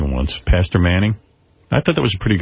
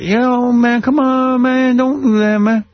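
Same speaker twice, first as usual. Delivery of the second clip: put-on high, loud street slang from the old neighborhood, words clipped short; street slang imitation; 14 semitones higher, 3 dB louder, much slower than usual. Recalling his neighborhood, he imitates how kids spoke, high and clipped. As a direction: clip every word like a kid on the block. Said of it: "You never, like, kind of finished a word".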